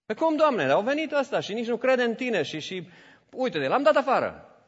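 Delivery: high, loud, wounded protest; high and loud, hurt and protesting; indignant protest. Retold or imitated. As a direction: defend yourself to God, affronted. Avram protests to God.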